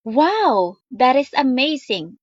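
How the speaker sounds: a lively, amazed wow for the class; excited exclamation. Shown as a demonstration. Teacher showing students an exclamation read with feeling. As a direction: say it like you are truly amazed. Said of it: "may buhay ba?".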